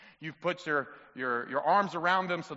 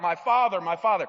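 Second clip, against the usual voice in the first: a touch louder, mild anguished cry; 7 dB louder than usual. Acted. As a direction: call out to the dying prophet, understated. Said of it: "he cries out".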